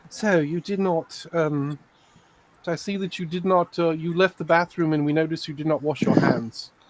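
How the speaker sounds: put-on snooty, condescending tone with faint British accent. Imitating how the machines would talk, mock-condescending slightly British accent. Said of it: "They actually have a condescending, slightly British accent".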